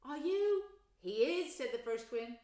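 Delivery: high, loud eager questioning; excited. Acted. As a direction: press him excitedly.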